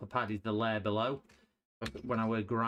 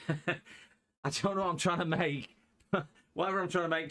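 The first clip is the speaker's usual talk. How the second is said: higher pitch, laughter breaking in; giggly, exasperated amusement; amused, laughing; 7 semitones higher, 3 dB louder than usual. Real, not acted. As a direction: laugh at your own hopeless effort. Laughing at own failed creation.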